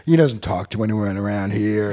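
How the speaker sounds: New York bartender. Acted. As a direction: grumble it like a classic New York barman, taking your time. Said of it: "classic New York bartender".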